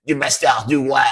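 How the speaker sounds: hammed-up French accent on the band name; fake French accent. Shown as a demonstration. Naming the band for viewers in a strong fake French accent. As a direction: say it like a cartoon Frenchman. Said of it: "I had to say it with a very fake, strong French accent".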